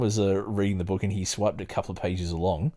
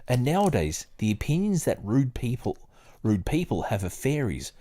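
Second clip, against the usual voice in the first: measured book reading, lightly performed; reading aloud; 2 semitones higher than usual. Acted. Reading the book aloud to a friend, in a lightly performed, measured voice. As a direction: read the old text steadily, like a study session.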